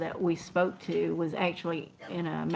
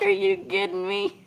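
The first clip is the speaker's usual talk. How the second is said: incredulous; 13 semitones higher than usual. Retold or imitated. Disbelief at safety director.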